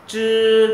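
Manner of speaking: "Chư" loud, long and high, tongue curled; tongue-curled, emphatic CHƯ. Shown as a demonstration. Teacher stresses the sound, loud tongue-curled "Chư". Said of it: "nhấn mạnh phát âm".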